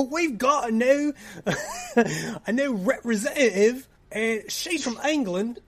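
high, loud, hammed-up British accent, breaking into laughs; mock British accent. Manager announces the new English representative, hammed-up British accent. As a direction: put on a cartoon British "hello, Governor" voice. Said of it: "Sally comes up and says".

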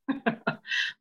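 soft airy chuckle; brief, quiet breath of laughter. Acted. She jokes about her wild trips, soft chuckle. Laugh after bourbon and Bible joke.

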